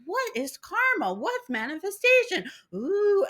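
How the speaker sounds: high, slow mock amazement; wide-eyed mock wonder. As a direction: gasp in naive wonder. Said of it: "they're like".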